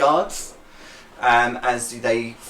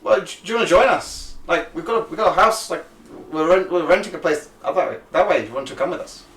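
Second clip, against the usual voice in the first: high friendly voice; 5 semitones higher than usual. Acted. GM voicing an inviting local.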